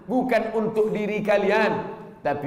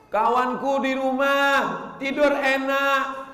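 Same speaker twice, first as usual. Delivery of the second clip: higher, slow whiny student; whining student; 7 semitones higher, slower than usual.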